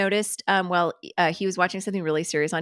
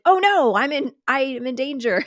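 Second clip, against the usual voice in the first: high, louder mock alarm; panicking toad; 6 semitones higher, 4 dB louder than usual. Toad fleeing into your feet, hammed-up high panic. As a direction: play a silly toad in a fake panic. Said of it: "they try to get away from you".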